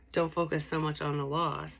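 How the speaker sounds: ordinary delivery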